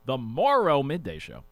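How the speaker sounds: "Morrow" said carefully, second syllable fully sounded; deliberate enunciation. Shown as a demonstration. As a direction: enunciate "Morrow" without slurring. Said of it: "I have to make sure I enunciate".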